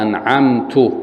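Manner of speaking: أنعمت ending in -tu, as anʕamtu; wrong vowel u. Shown as a demonstration. Teacher demonstrating the mistaken damma in أنعمت. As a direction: end أنعمت with damma, "I blessed". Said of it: "بالضم".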